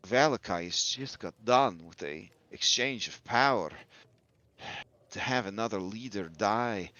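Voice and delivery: lightly voiced, measured game character; Muriel. Innkeeper-style counsel to three concerned listeners, lightly voiced and grave. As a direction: weigh the words soberly, in character. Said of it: "and then Muriel says".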